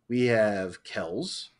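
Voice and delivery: very slow, rising winner announcement; drawn-out announcement. Acted. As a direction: stretch it out like a game-show host.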